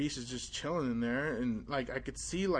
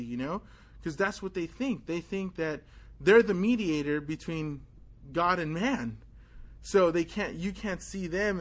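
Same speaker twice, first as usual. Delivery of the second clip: higher, louder worked-up argument; heated retort; 4 semitones higher, 3 dB louder than usual. Retold or imitated. Boy arguing with the priest about privacy, higher and louder. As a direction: argue back hard.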